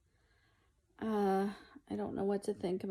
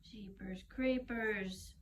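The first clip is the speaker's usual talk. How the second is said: slow breathy whisper; whispered exclamation; 6 dB quieter, slower than usual. Real, not acted. Mom watching the cat mess, slow whispered jeepers. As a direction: mutter it under your breath, slowly. Startled aside while filming.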